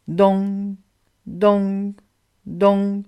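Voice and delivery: imitated clock stroke, drawn out on the nasal ending; clock chime. A narrator's reading. Narrator imitates the great clock striking, long even chime. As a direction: sound out each stroke like a big clock. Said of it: "résonna la grande horloge".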